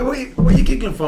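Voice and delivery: fast and high through laughter; laughing. Retold or imitated. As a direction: spit the question out mid-laugh. Manager's question retold, laughing.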